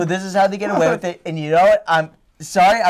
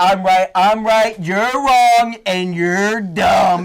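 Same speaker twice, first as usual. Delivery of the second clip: smug scientist; 3 dB louder, much slower than usual. Retold or imitated. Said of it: "they're always like".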